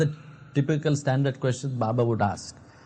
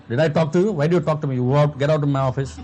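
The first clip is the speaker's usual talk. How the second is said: rude doctor; 4 dB louder, faster than usual. Retold or imitated. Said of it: "a very rude man".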